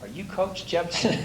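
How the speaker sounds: a hint of a gruff caller, slowed; lightly voiced stern stranger demanding his name; mock mean voice. Caller on the phone asks for the coach, lightly gruff. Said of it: "mean voice".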